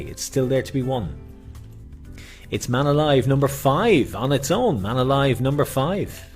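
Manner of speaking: bingo caller. Acted. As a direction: announce the number to players. Bingo calls on live stream.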